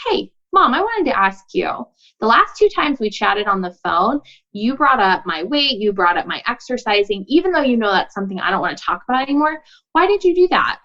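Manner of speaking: gently curious question to mom, lifted at start and end. Acted. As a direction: ask mom as if you truly wonder. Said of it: "with curiosity".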